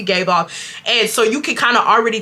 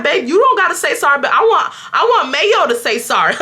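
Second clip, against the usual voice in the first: excited joking; 4 semitones higher than usual. Real, not acted. Comforting friend, joking about waitress.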